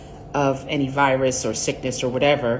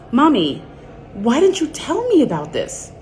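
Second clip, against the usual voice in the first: put-on higher, complaining little-girl voice; whiny daughter; 7 semitones higher than usual. Daughter whining to her mother about menopause, mock childlike. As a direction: whine at mom like a kid.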